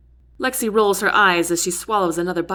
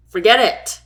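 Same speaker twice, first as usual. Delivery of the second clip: sudden louder snap; yell; 2 semitones higher, 6 dB louder than usual. A narrator's reading. Jack silencing the whining soldiers, sharp yell. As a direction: cut the soldiers off hard. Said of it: "Jack yells".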